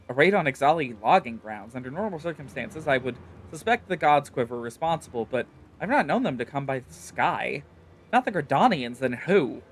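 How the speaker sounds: lightly voiced, thoughtful soldier; musing officer. Officer reasoning out the raid, lightly voiced. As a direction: think aloud about who raided them.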